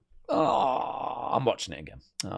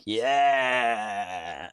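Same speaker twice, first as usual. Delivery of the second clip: mock shout; 3 semitones lower than usual. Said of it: "She's going like".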